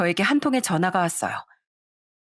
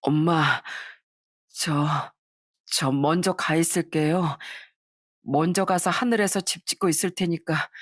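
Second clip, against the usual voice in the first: dying son's farewell. Acted. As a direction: speak faintly, saying goodbye for good. (어머니께 마지막 인사를 하는 아들의 낮은 목소리)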